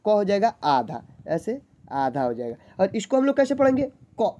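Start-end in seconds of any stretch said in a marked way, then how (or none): 4.2-4.3 "क" said as a bare consonant with no vowel after it; half क. Shown as a demonstration. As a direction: clip "क" short with no अ sound after it. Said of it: "क, ऐसे पढ़ेंगे". ("क" आधा, बिना अ के बोलना)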